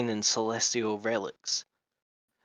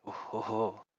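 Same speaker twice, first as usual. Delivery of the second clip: put-on lizard accent; 8 dB quieter than usual. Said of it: "doing a lizard accent".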